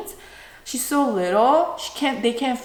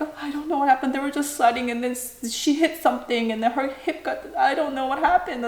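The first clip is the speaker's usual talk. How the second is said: higher, mildly frantic retelling; retold panic; 3 semitones higher, 4 dB quieter, faster than usual. Mom explaining the sledding accident to Daddy, mildly panicked. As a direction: reenact a flustered explanation.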